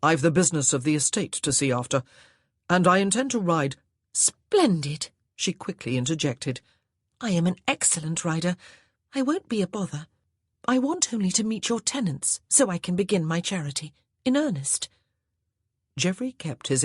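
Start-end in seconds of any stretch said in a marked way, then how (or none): 0.0-3.8 louder firm statement. Acted. Husband firmly refusing. 4.1-14.9 wife's voice. Acted. Wife character speaking.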